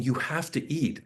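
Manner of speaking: urgent plea, lightly acted; retold panic. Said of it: "I panicked".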